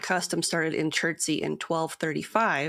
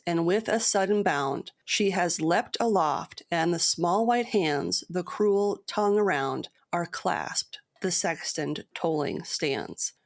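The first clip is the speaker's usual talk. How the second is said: measured dramatic poem reading; storyteller reading an old ballad; poem recital. Acted. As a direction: recite the ballad with steady rhythm.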